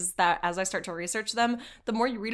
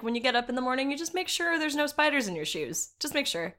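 higher, light, matter-of-fact friend voice; breezy quick advice, pitched up; Australian friend explaining; 5 semitones higher than usual. Retold or imitated. Australian friend explaining the morning routine, higher casual voice. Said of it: "was explaining to me how they just".

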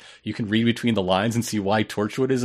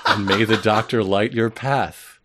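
mystic fortune teller voice; 2 semitones lower than usual. Acted. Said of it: "it should be the mystic voice".

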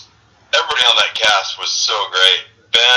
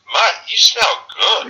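Ben's voice, much higher and slow; imitating Ben; 13 semitones higher, slower than usual. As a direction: drawl the compliment up high and slow, mock Ben. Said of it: "and he goes".

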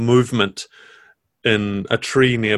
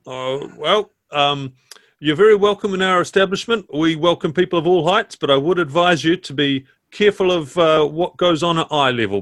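higher, brisk landlady voice; chatty tavern keeper; innkeeper voice; 5 semitones higher than usual. Acted. Innkeeper Missus Eames speaking.

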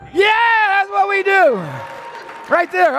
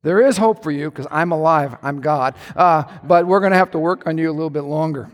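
a touch lower, calm voice of God; 4 semitones lower than usual. Retold or imitated. God answering defensive husband, slightly lower calm voice. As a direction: reassure him dryly. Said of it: "The Lord's like".

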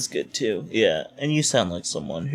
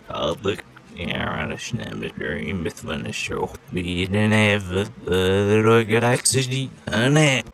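backwards speech; slower than usual. Acted. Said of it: "impressive display of backwards speak".

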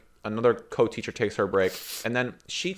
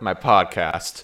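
laughing; 4 semitones lower, much slower than usual. Real, not acted. Laughing retelling slip.

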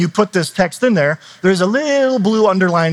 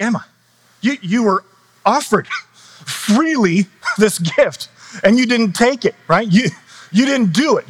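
higher, half-laughing parental telling-off; mock stern lecture; 4 semitones higher than usual. Dad scolding his two-year-old over the snack, mock stern. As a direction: play the dad lecturing a sulky toddler, chuckling through it.

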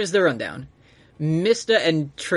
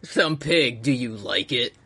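lightly voiced Italian pig; a hint of a comic pig accent from Italy; talking Italian pig; 3 semitones lower, slower than usual. Friend playing the pig in Italy, mock Italian pig voice. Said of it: "This is how pigs talk in, in Italy".

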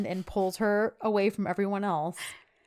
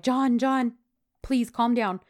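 higher and louder, pleading to calm him; urgent plea; 4 semitones higher, 5 dB louder, slower than usual. Retold or imitated. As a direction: pull him back urgently. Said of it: "Sanem and Duran are like".

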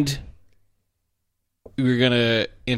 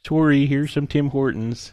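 put-on Canadian accent. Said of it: "That was the worst Canadian accent".

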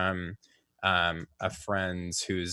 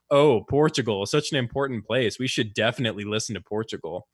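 sarcastic. Retold or imitated. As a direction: imitate a host's sarcastic reply, lightly mock-impressed. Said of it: "the host sarcastically responded".

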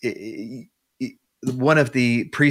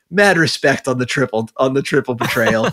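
cheeky demon; 3 semitones higher, 4 dB louder than usual. Retold or imitated. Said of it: "and he's like".

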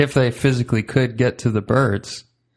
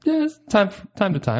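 laughing; 9 semitones higher than usual. Real, not acted. Laughs admitting to dressing up.

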